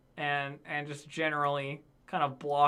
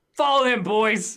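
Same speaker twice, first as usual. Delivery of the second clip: louder, hinted gruff leader; bugbear voice; 5 semitones higher, 8 dB louder, slower than usual. Acted. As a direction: call the gang to follow. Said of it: "the biggest bugbear goes like".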